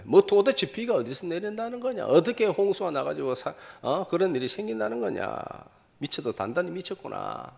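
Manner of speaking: mock them like an incredulous crowd; mocking disbelief. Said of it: "조롱하고 비난하고".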